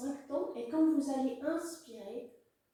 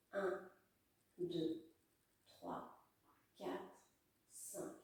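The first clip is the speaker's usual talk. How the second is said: counting with breath held; holding breath; 6 semitones lower, 11 dB quieter, much slower than usual. Real, not acted. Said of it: "Je bloque".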